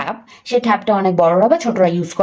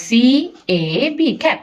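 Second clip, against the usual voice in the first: slow spelling demo; much slower than usual. Shown as a demonstration. Teacher slowly spelling a word for a young reader. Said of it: "আমরা শিখেছি এবি দিয়ে ক্যাব হয়".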